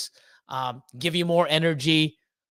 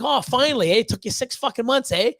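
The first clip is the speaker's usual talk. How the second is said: raised, mock-chummy voice of a buddy ribbing his friend; teasing buddy; 6 semitones higher than usual. Buddy teasing his friend at last, light mock ribbing. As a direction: rib him like an old pal, eh. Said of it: "is my buddy's like".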